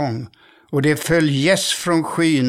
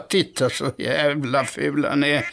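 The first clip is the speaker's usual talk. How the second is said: mocking laugh. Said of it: "skrattade de andra ankorna".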